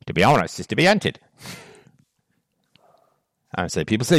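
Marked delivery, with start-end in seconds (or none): 0.1-1.2 a light mock British accent on the whole line. Shown as a demonstration. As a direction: say it the way they would in England, lightly British. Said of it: "as they would say in England".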